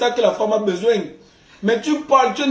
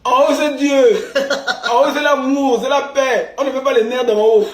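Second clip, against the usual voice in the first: emphatic preaching; 2 semitones higher, 4 dB louder than usual. Acted. Lecturing viewers on love, a loud mock-preacher proclamation. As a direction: proclaim it like a pulpit preacher, laughing. Louder emphatic sermon-like closing.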